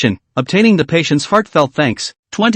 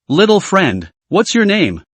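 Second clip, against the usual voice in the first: friendly smile; 4 semitones higher, slower than usual. Acted. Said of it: "asked with a smile".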